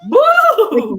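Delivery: high loud mock scare; playful boo. Answering a tummy-poke joke, loud playful boo. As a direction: shout it to startle playfully.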